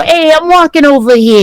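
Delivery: a light imitation of a tough-guy New York accent; masculine New York accent. Showing friends the masculine New York accent, lightly imitated. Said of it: "that sort of, like, New York accent".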